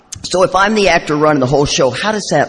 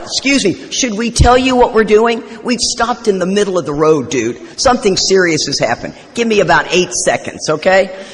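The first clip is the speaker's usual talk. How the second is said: raised, sharp scolding of a honking driver; ugly statement; 5 semitones higher than usual. Retold or imitated. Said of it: "gave him a very ugly statement".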